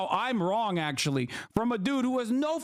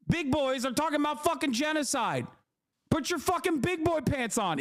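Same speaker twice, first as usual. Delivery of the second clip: higher-pitched replay of his angry TV rant; re-yell it, hammed up and higher; mock rant; 3 semitones higher than usual. Streamer re-enacting his rant at the panelist, mock angry. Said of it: "'Cause I, like".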